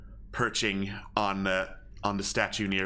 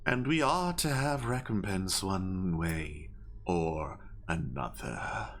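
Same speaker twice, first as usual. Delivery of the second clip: menacing owl leader; 2 semitones lower than usual. Acted. Owl leader threatens the party.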